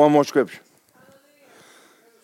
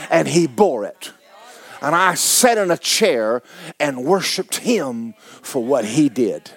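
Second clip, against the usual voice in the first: slow, tender telling of the cross; slow worshipful recital; slower than usual. Shown as a demonstration. Preacher showing how he considered Jesus, slow and tender. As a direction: linger on each phrase, awed. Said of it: "what do you consider".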